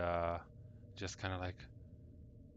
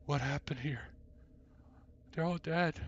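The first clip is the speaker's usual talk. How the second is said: shocked; 7 semitones higher, 3 dB louder than usual. Acted. Woman wakes to see bodies.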